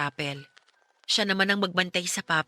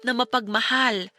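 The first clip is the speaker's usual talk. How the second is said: earnest urging; 3 semitones higher than usual. Acted. Friend urges grieving son.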